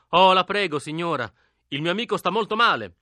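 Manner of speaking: urgent suffering gentleman. A narrator's reading. Boy begs old woman to open, feigned anguish. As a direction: beg with put-on urgency and anguish. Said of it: "ciangotta da signore tipo gran fretta e sofferenza".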